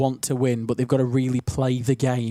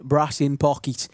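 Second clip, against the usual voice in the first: Stokey accent. Shown as a demonstration. Presenter repeating the accent slip to listeners, Stokey accent. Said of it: "but that I just did".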